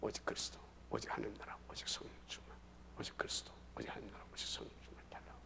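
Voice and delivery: whispered recitation for a soft music bed; hushed recording demo. Shown as a demonstration. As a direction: breathe the phrases out very quietly, as over calm music. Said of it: "밑 잔잔하게 음악 깔고". (잔잔한 음악 위에 얹듯 속삭이는 낭송)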